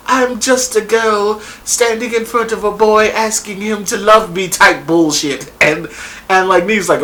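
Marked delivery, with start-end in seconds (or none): 0.1-4.5 movie line. Retold or imitated. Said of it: "she comes at the girl with this old".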